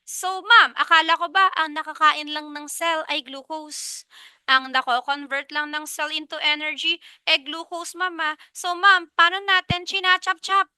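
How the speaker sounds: questioning student. Acted. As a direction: ask ma'am like a puzzled student. Voices a puzzled student asking ma'am.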